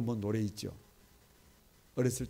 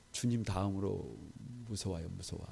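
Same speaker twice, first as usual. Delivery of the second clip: soft mock-scared wife; a hint of the wife's teasing fear; quoting his wife; 4 semitones lower, 9 dB quieter than usual. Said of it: "그 뭐라 그럽니다".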